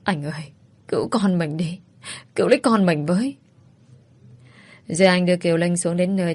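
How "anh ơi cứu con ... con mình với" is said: crying in pain. Acted. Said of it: "Linh đau đớn khóc lóc".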